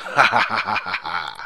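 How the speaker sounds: sinister low laugh; evil chuckle. Acted. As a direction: give a dark villain's chuckle. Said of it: "with that sinister laugh".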